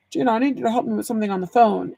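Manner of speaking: lightly voiced dad, very fast; a quick, toned-down impression of Dad. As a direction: rattle it off as a father asking for help. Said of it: "That was my dad voice".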